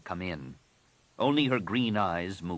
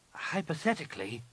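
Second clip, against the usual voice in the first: higher, unsure rising Hypothetically; hesitant; 8 semitones higher, 3 dB quieter than usual. A narrator's reading. Nen Yim answers her master, hesitant rising echo. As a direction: test the word Hypothetically with a tentative lift. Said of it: "Nen Yim said hesitantly".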